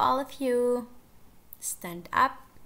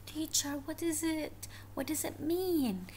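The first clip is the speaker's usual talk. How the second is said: slightly higher questioning pupil voice; puzzled pupil; 5 semitones higher, faster than usual. Acted. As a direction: ask like a puzzled student.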